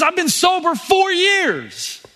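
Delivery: a hint of a proud recovering addict; proud slow man's voice. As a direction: let the man savour every word. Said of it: "He goes".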